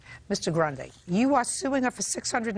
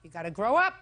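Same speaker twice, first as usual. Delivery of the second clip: sharp raised scolding; 4 semitones higher, 4 dB louder than usual. Real, not acted. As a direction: scold them like a stern judge. Judge scolding a litigant.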